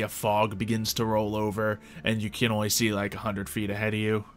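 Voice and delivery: normal talking voice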